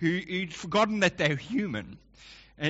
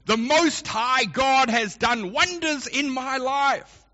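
lightly voiced king; 8 semitones higher, slower than usual. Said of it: "starts his letter saying".

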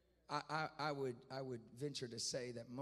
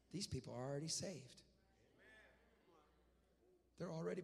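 God's reply; 6 dB quieter than usual. Retold or imitated. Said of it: "And God said".

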